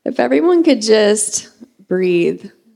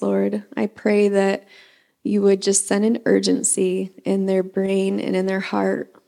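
prayer. Acted. Leads the congregation in prayer.

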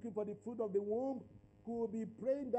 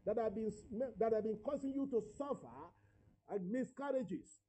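declaratory prayer. Real, not acted. Preacher praying over those seeking a child, emphatic declaration. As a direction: pray with authority, stretching the name of Jesus.

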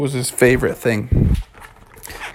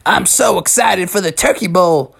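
lightly voiced, eager anticipation; a touch of excitement about the big game; excited young player; 2 semitones higher than usual. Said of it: "he was like".

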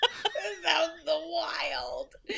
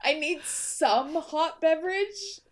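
mimicking her own phrase. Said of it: "Hey, hold on".

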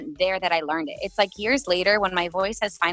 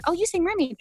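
the same line again, much higher and more eager; excited fan quote; 11 semitones higher, much faster than usual. Retold or imitated. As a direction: squeal it like a fan who just recognised her. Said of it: "people are like".

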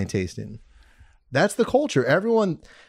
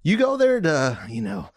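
out of breath. Real, not acted. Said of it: "it's funny saying this out of breath".

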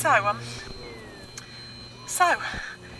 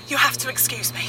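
out of breath. Acted. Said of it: "I'm a bit out of breath".

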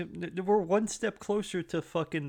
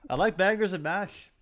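higher, put-on movie Irish accent; 5 semitones higher than usual. Spoofing Tom Cruise in Far and Away, Irish accent. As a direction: list favourites in a lilting mock Irish accent. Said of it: "did he use an Irish accent".

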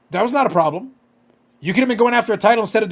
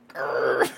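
mock growl; 8 semitones lower, 5 dB quieter than usual. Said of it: "I'd be like".

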